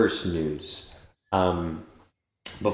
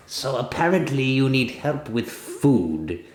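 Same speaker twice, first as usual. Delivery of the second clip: bug voice; 5 semitones higher than usual. Acted. Bug keeps talking.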